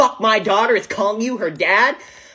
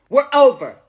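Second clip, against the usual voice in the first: angry; 4 semitones higher, 5 dB louder than usual. Acted. Breaking off the engagement.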